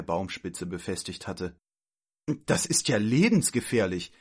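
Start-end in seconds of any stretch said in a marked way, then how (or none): 2.5-4.1 mildly raised, outraged exclamation; indignant call. Acted. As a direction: protest with indignation, leaning on the danger. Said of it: "rief sie empört". (empört ausgerufen)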